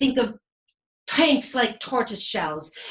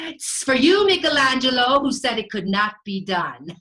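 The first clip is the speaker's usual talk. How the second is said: raised, loud jab at a rival; gloating taunt; 2 semitones higher, 4 dB louder than usual. Acted. Leonardo to Michelangelo, who doubted him, gloating loudly. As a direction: throw it triumphantly at your doubter.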